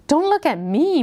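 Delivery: high, sharp denial snapped back; angry denial. A narrator's reading. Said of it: "who reacted angrily".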